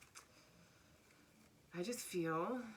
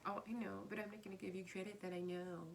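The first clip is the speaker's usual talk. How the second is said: snooty emperor. Acted. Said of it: "this is a snooty emperor".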